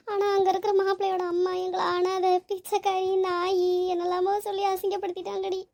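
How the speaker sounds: lightly tearful account of being insulted; a touch of crying in the voice. Acted. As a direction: hold back tears while telling a friend. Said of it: "அழாத".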